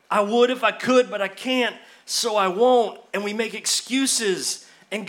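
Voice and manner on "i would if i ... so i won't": mock-frustrated refusal; exasperated whine. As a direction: throw up your hands at God. Excuse to God, exasperated.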